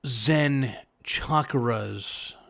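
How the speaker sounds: very slow, drawn-out mystical delivery; Nick Cage impression. Streamer showing chat his Nick Cage, slow and drawn out. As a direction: stretch each word out like a spaced-out guru. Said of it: "my Nick Cage".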